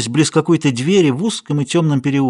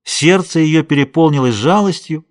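ordinary delivery, nothing marked

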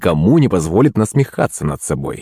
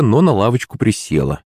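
ordinary delivery, nothing marked

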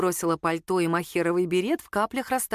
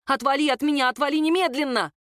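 yelling; 5 semitones higher than usual. A narrator's reading. Ника кричит на чужака, чтобы отстал — крик. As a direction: push him off with your voice. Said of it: "заорала в ответ Ника".

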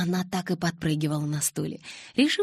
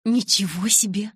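louder, higher, thrilled "wow"; delighted exclamation; 4 semitones higher, 5 dB louder than usual. A narrator's reading. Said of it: "восторженно воскликнула она".

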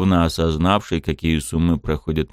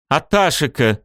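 bellowing call; 8 semitones higher than usual. A narrator's reading. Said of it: "тут же взревел мэр".

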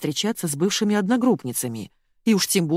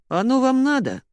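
sly doubtful question; 8 semitones higher, 3 dB louder than usual. A narrator's reading. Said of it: "прищурился наш адвокат".

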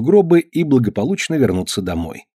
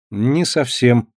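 glum; much slower than usual. Acted. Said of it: "уныло отозвался мальчик".

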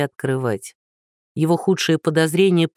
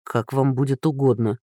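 bewildered; 4 semitones lower than usual. Acted. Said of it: "растерянно бросил Андрей".

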